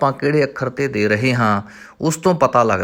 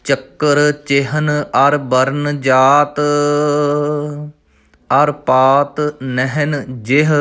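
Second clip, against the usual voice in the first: drawn out, stretched syllables; slow recitation; slower than usual. Shown as a demonstration. Teacher reciting Gurbani for students, slow and measured. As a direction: chant the word slowly and evenly.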